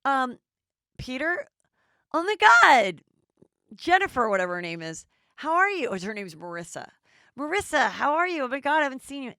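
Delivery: high, loud squealing surprise; loud high mock delight at an old friend; gushy fake excitement. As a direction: play the ex, gushing over him. Voicing the ex showing up.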